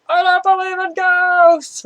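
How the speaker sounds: holding back a shout, half yelled; comically half yell it over your shoulder; whisper-yelled. Retold or imitated.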